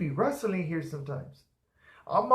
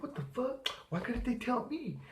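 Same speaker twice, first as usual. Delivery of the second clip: petulant outburst; 8 semitones higher, 10 dB quieter than usual. Retold or imitated. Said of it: "I act like a little bitch".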